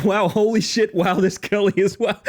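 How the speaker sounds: high, loud, laughing wow; laughing surprise. Real, not acted. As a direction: caught off guard and laughing. Raid arrives, laughing surprise.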